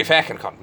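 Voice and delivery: "fucking" said as "facken"; Scottish-style pronunciation. Shown as a demonstration. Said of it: "Well, they say fucking cunt".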